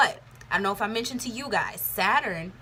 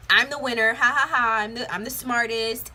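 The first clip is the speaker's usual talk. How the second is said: louder, gloating "I'm the winner" with a taunting ha ha ha; mock gloating; 3 semitones higher, 6 dB louder than usual. Mocking the egotistical person who has to win, gloating. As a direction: crow over them like a smug winner. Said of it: "not getting so egotistical".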